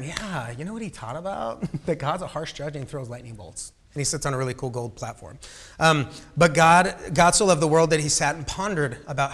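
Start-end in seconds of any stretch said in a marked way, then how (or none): 0.0-5.4 mock misquote. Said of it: "Don't tell Aaron".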